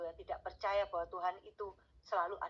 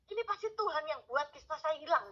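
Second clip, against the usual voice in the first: awed realisation; 8 semitones higher than usual. Retold or imitated.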